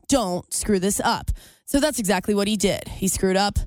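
sports news read; reporter voice. Shown as a demonstration. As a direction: deliver it like a sportscaster. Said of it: "let me get on my reporter voice".

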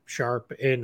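Sharpe said with a broad Boston accent, r dropped as "Shahp". Real, not acted. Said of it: "the Boston accent is just pouring out of me".

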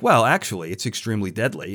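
mildly imitating a calm engineer; calm matter-of-fact. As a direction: deliver alarming news with mock calm. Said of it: "he said it very calmly".

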